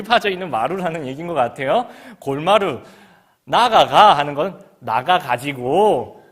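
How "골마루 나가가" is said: loud, very slow Gyeongsang 골마루 나가가; Gyeongsang dialect. Retold or imitated. Teacher sending pupils to the hallway, slow loud Gyeongsang. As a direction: drag out the order in dialect. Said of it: "경상도 말로".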